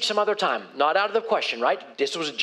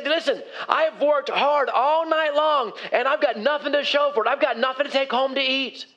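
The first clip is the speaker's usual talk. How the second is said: tired complaint; 4 semitones higher than usual. Acted. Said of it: "Simon was communicating all of that".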